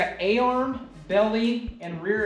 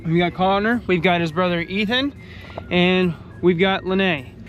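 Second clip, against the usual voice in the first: excited greeting; 3 semitones higher, 3 dB louder than usual. Real, not acted. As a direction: kick the day off with energy. Hyped morning road trip start.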